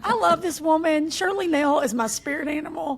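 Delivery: laughing delight. Real, not acted. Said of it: "delighted about the woman".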